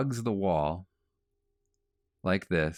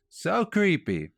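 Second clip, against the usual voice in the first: so creepy; 11 semitones higher, 3 dB louder than usual. Real, not acted. Storyteller reacting to creepy neighbor.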